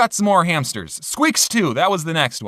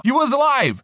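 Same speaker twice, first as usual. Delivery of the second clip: mock surprise; 7 semitones higher than usual. Sudden twist after fake death.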